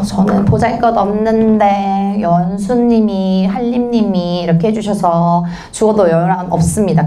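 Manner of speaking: slow, drawn-out show of humbleness; hammed-up humble act, syllables dragged; feigned humility. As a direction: stretch the words out, putting on lowliness. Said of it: "이게 가난한 척 막 엄청 해요".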